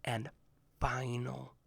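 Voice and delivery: hushed. Retold or imitated. Imam announcing the last winner, hushed and slow. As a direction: whisper it to build suspense. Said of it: "He says".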